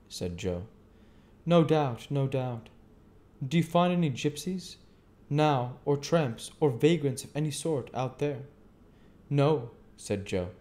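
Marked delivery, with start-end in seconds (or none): 1.4-8.5 the stranger. A narrator's reading. Stranger probes about vagrants. 9.3-9.7 lightly voiced simple blacksmith, a bit higher; a hint of easygoing Joe. A narrator's reading. Joe answers.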